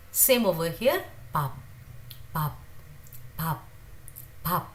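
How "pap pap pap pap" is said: pap with a forced first p and soft final b; pronunciation demo. Shown as a demonstration. Teacher drilling pap for students, careful. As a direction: push air on the first p of pap. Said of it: "first one is slightly forced".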